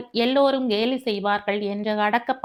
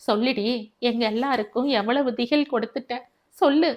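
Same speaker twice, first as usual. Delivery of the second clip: stern demand. Acted. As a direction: press her harder, ending in a snap. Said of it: "மறுபடியும் அதட்டினான்". (மனைவியை மீண்டும் அதட்டும் குரல், கடைசியில் உரக்க)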